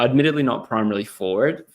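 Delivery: "primarily" said the American way, stress on "mar"; American accent. Real, not acted. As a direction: slip into an American "primarily" in an Aussie sentence. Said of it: "was that an American accent?".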